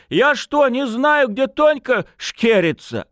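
high, whiny tipsy protest; aggrieved drunken lad; indignant wailing. A narrator's reading. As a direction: argue your case at a high pitch. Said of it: "возмущённо заголосил молодой человек".

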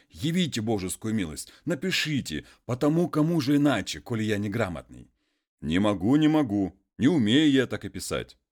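a hint of a humble muzhik pleading; peasant voice.

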